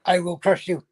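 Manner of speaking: heavy Russian villain growl; menacing Russian boxer line; Drago impression. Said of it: "shouting out all the famous lines".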